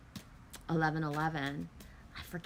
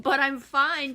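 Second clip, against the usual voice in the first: put-on crying child's protest; 5 semitones higher, 9 dB louder than usual. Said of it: "sitting there crying and you're like".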